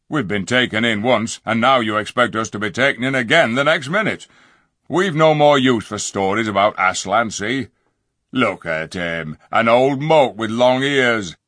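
gruff, fed-up dwarf; scornful dwarf. A narrator's reading. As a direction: sneer at all the talk. Griffle scorns the donkey.

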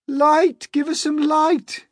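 high, loud demanding yells; shouted high and urgent; clamouring cry. Acted. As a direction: cry out as an impatient crowd. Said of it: "they cried".

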